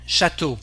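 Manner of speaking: Château ending on a pure closed "o"; French O sound. Shown as a demonstration. Teacher showing three letters with one sound, French O sound. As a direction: say Château as "sha-TOH" without a glide. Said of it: "the sound O".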